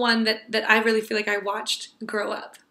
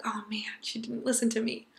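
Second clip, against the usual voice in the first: soft, breath-only inner thought; dismayed murmur; 8 dB quieter than usual. Retold or imitated. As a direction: mutter it under your breath, let down.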